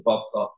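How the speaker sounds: "Vavcha" with the middle v devoiced to f, VAF-cha; mispronounced Vavcha. Shown as a demonstration. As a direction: let the second v of "Vavcha" slip into an f. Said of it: "sounds like a fei".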